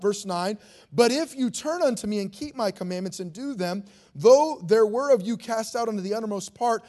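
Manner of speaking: scripture reading. Acted. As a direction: lecture biblique solennelle, avec ferveur. Reads Nehemiah's prayer from scripture.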